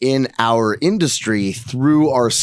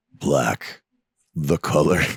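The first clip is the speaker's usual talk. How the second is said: very low, seductive, sultry voice; 9 semitones lower, 4 dB quieter than usual. Reading a flavor name aloud off a package to the group, in a sultry voice. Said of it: "my sultry voice".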